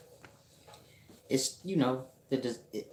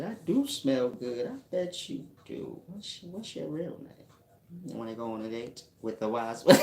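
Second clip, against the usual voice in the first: high, lightly voiced woman flirting; mock a flirty woman, higher; imitating her; 5 semitones higher than usual. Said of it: "She said".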